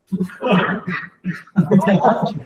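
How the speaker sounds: sudden, high-pitched laughing outburst; real laugh bursting out like a demon; demonic outburst. Real, not acted. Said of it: "There was a demon coming out".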